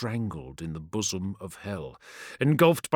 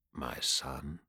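deep otherworldly voice; 8 semitones lower, 10 dB quieter than usual. Acted. Demigod speaks from the golden light.

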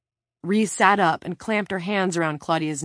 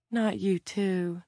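slow, drawn-out lament; mournful; 3 semitones higher, slower than usual. A narrator's reading. Claudia realising her cellmate is going too, mournful. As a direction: let the grief stretch the words out. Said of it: "Claudia mourned".

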